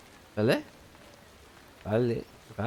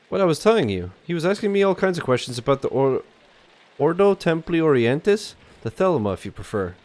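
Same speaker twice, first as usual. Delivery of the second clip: lightly voiced bookseller, mostly higher; old French bookseller; 4 semitones higher than usual. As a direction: explain as the old Parisian bookseller.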